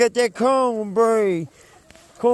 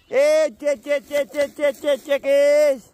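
higher sing-song chicken call; 4 semitones higher than usual. Real, not acted. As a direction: call the flock over, chanting. Calling the chickens to come.

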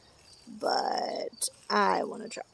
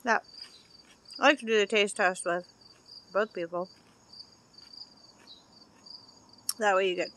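speaking between bites; talking while chewing; 4 semitones lower, faster than usual. Real, not acted. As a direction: mouth partly full of food. Seen 1: Bites pepper at -3; jaw chewing, pepper in hand while talking.

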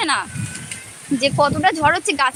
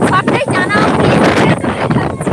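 shouting over wind; 3 semitones higher, 6 dB louder than usual. Real, not acted. Yelling over storm.

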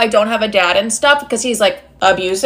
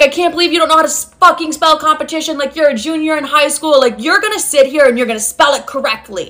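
higher-pitched imitation of an exasperated dad; mock scolding; 4 semitones higher than usual. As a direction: retell a parent's telling-off, pitched up. Retelling dad's late-night spelling scolding.

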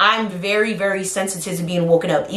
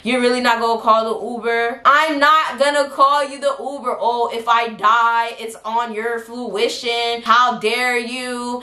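going off; 4 semitones higher, slower than usual. Retold or imitated. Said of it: "this lady starts going off on me".

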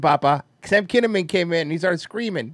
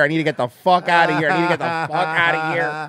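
a touch louder and fast, a lightly voiced antsy wrestler; desperate urge to leave; 4 dB louder, faster than usual. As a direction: rattle it off like a man itching to bolt. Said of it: "Bobby Fish over here is fucking being like".

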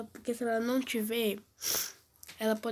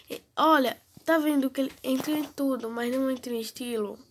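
excited; 2 semitones higher, 7 dB louder than usual. Real, not acted. Game glitch annoys him.

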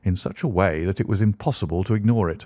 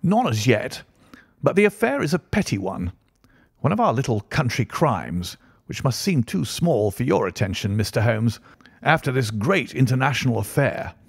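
higher-pitched, animated character voice for the Colonel; genial country Colonel; 5 semitones higher than usual. Acted. Colonel tells his guests of a local break-in, chatty and higher. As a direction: swing the pitch up as you share local news.

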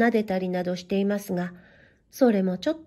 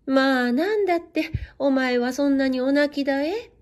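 startled mother; 2 semitones higher than usual. Acted. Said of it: "びっくりなすって母様は".

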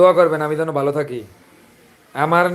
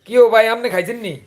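Chandpur dialect; 3 semitones higher than usual. Shown as a demonstration. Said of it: "আঙ্গদেশি ভাষা এটা".

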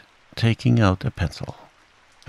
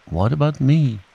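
sadly; 6 semitones higher, 3 dB louder than usual. A narrator's reading. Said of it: "said Pooh sadly".

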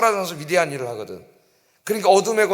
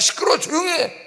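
tag; 9 semitones higher than usual. Acted. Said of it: "사람들이".

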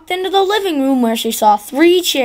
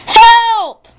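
high, loud cry for help; scream; 9 semitones higher, 7 dB louder than usual. Acted. Goldilocks wakes to three bears and screams loud. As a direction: shriek it out in fright. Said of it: "she screamed".

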